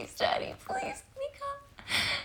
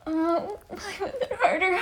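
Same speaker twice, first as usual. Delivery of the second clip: urgent plea; 6 dB louder than usual. Acted. Urging partner on, louder.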